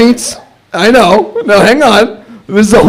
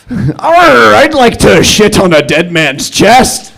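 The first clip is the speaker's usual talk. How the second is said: pirate voice; slower than usual. Acted. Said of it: "what I think a kinky pirate would sound like".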